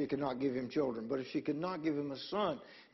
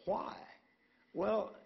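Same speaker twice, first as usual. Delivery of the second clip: mock clueless husband; 5 semitones higher than usual.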